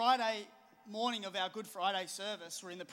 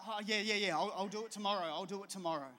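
mock excuse. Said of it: "we listen to this lie".

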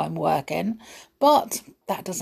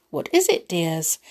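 gentle Snow White voice. Acted. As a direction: coax the little animals. Snow White asks animals.

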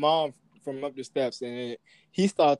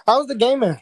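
whispered question; whispering; 7 semitones higher, 7 dB louder than usual. Real, not acted. Host asks a question.

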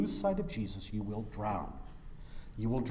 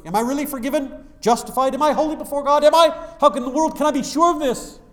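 much higher, louder, fast anguished questioning; preaching at full force; 13 semitones higher, 14 dB louder, faster than usual. Acted. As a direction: cry out the doubts from the pulpit. Preaching climax of doubts.

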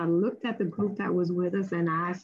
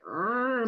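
frustrated growl; 3 semitones higher than usual. Retold or imitated. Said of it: "My spirit was like".

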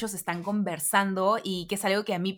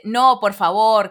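polite refusal; 9 dB louder, much slower than usual. Retold or imitated. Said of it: "siempre decimos".

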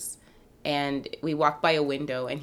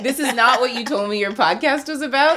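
mock indignation; 7 semitones higher, 5 dB louder than usual. Playful protest at interview question.

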